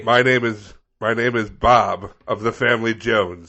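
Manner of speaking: loud, grandly declaimed introduction; Gandalf-style resident. Acted. Resident facing the plow driver, grand proclamation. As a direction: proclaim it like a wizard naming himself. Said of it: "giving their best Gandalf".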